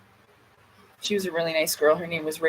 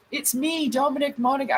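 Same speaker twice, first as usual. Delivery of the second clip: higher-pitched, lightly put-on British accent; Dominic Monaghan; 5 semitones higher than usual. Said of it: "putting on a British accent".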